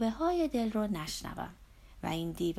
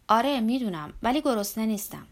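curt refusal; 7 dB louder than usual. Acted. Narrator answers Zorba.

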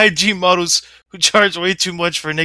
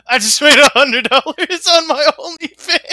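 mocking voice; 9 semitones higher than usual. Mocking Josh bragging.

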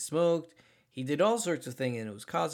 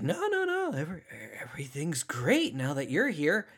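imitating an unhinged man's falsely cheerful welcome; creepy tone; 3 semitones higher than usual. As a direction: narrator mimics the bloodied brother's unsettling greeting. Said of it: "Said it in that tone and in those words".

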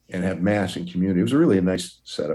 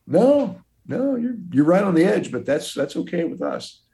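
eager priest; 12 semitones higher than usual. Retold or imitated. Priest voiced on phone.

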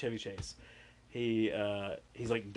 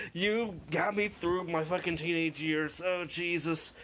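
gushing fan; 6 semitones higher than usual. Pretend. Fan telling Buddy he got her through her teens, starstruck. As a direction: pour your heart out to your idol. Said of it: "I'm like".

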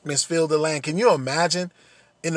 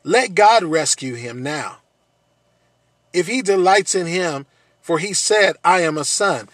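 mocking; 3 dB louder than usual. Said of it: "and so there's this mocking".

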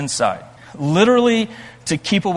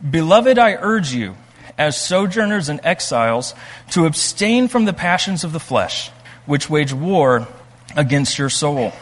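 scripture reading. Acted. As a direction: read the verse out with weight. Reads scripture aloud.

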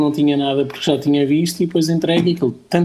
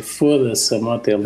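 "Foda-se" thrown in for punch, "a moto é linda" lower; emphatic slogan; 4 semitones lower than usual. Shown as a demonstration. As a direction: hit "Foda-se" then drop into "a moto é linda". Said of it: "tens de dizer". (slogan enfático)

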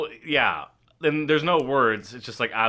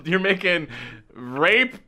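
slow, laughing punchline; 3 semitones higher, 4 dB louder than usual. Real, not acted. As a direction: draw it out while laughing.

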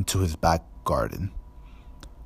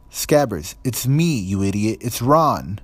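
frantic hiss; 4 semitones higher, 5 dB louder than usual. A narrator's reading. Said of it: "Ron hissed".

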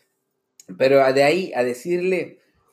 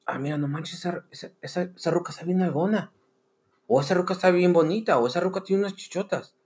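tono de admiración; 3 semitones higher, 3 dB quieter than usual. Retold or imitated. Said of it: "en tono de admiración".

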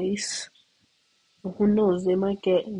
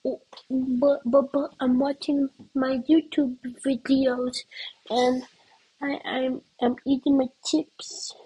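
put-on higher, whiny kid protest; a kid who refuses to budge, pitched up; whiny little sibling; 5 semitones higher than usual. Little sibling protests being kicked off the chair, higher whine.

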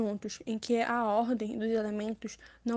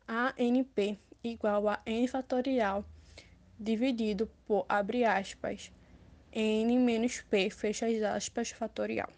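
slow formula dictation; dictating; slower than usual. Shown as a demonstration. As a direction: spell out each symbol slowly. Reading a formula aloud.

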